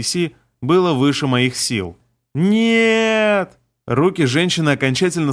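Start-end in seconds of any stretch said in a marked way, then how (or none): 2.3-3.6 desperate shout. Acted. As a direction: shout it out in horror. Hero sees the woman fall.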